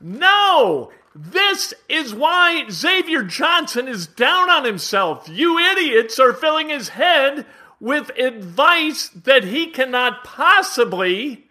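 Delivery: slow, furious rant at the coaches; furious shout. Real, not acted. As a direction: blow up and roar at them.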